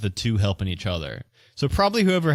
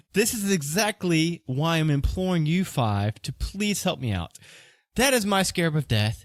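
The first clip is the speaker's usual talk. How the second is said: higher-pitched merchant character, pleading his case; anxious accused merchant; 7 semitones higher than usual. Acted. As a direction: play a worried shop owner in a raised voice.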